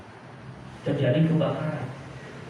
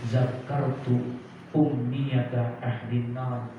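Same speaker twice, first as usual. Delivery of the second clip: Arabic quote recitation; much slower than usual. Acted. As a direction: recite it slowly and solemnly. Arabic quote recited again slowly. (membaca kutipan Arab dengan pelan dan khidmat)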